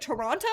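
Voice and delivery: outsider's careful "Toronto", T pronounced. Retold or imitated. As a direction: say "Toronto" with a clearly sounded second T. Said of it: "Why would you say the T?".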